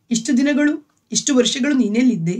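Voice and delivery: husband lightly imitates his wife's wailing; mild mock wailing. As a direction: retell her grieving lightly. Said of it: "ಎಂದು ಲೀನಾ ಗೋಳಾಡಿದಳು".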